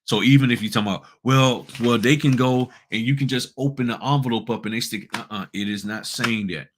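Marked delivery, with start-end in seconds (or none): 1.2-5.1 higher mock protest; mock objector. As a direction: voice someone arguing for a loophole. Voices an imagined objector.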